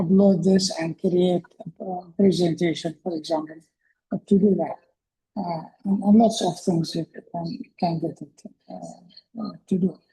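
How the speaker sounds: muffled underwater-sounding voice. Real, not acted. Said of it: "your voice sound like underwater".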